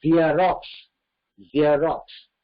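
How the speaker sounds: "ஜெராக்ஸ்" as zee-rox with a z; correct English xerox. Shown as a demonstration. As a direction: say "ஜெராக்ஸ்" starting with z, not j. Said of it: "ஜெராக்ஸ் கிடையாது".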